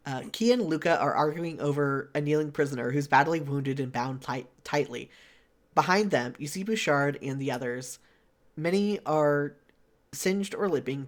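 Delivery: measured game narration; story narration. Acted. Reading a visual novel's scene to a friend, story narration. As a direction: read the scene out steadily.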